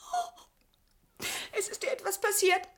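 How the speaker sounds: loud frightened wail for mama; tearful panicked shout; panicked cry. Acted. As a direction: cry out in fear for her mother. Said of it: "Schrei nicht so".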